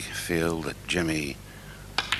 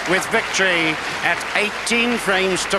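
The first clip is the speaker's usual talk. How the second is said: excited commentary; 8 dB louder than usual. Real, not acted. Champion crowned over applause.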